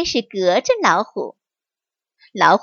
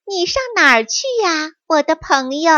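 high, quick and eager; eager question; 6 semitones higher, faster than usual. Acted. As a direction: fox hurrying to catch the tiger's interest. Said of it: "狐狸急切地问道".

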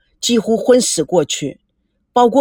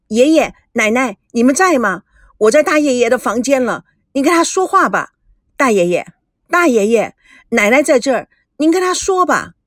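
lightly voiced young man, bright and urgent; eager grandson; 3 semitones higher than usual. Grandson hands the phone to his great-uncle, eager.

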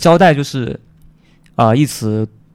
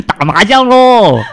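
laughing; 9 semitones higher, 5 dB louder than usual. Acted. Joking punchline.

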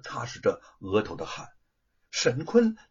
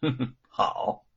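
cold sneer; 4 semitones lower than usual. A narrator's reading. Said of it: "吴承恩冷笑一声".

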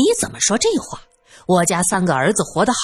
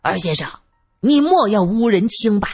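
restrained indignant warning; angry. Acted. Man accused of an affair warns the simpleton, angry. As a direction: warn him off with understated anger. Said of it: "宁志国则勃然大怒".

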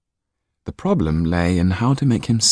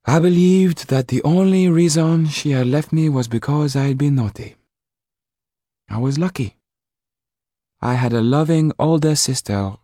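much higher lady's voice, confiding; Mrs Laxton's voice; 8 semitones higher than usual. A narrator's reading. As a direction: share an old sorrow gently. Mrs Laxton recalls her mother.

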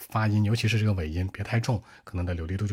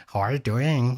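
put-on Indian accent; 3 semitones higher, slower than usual. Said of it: "印度人讲英文是吧".

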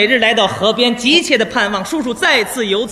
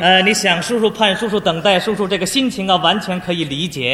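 patient counsel; 3 semitones lower than usual. Acted. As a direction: coax the boy along kindly. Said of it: "因势利导". (耐心开导的语气)

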